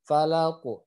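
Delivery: Falaku with the final q bounced toward an O; bouncing final qaf. Shown as a demonstration. Teacher shows students the echo on the last letter, bouncing qaf. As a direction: bounce the end of Falaku, rounded. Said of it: "harus mantulnya ke huruf O".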